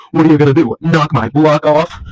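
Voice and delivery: mock-tough challenge, slowing down; taunting biker. Biker guy looks down on Shorty, taunting voice. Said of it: "looks down on him and goes".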